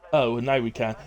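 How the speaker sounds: mock let-down reading, opened with an "oh"; slightly disappointed. Streamer voicing a viewer's chat message back to them, slightly disappointed. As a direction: read it back as mildly disappointed. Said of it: "sounds like you were slightly disappointed".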